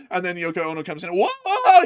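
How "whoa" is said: mock whoa. A singer's entrance mocked.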